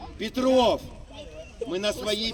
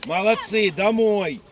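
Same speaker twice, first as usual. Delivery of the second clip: yelling across the room; 4 dB louder, slower than usual. Real, not acted. Coach calling players off pitch.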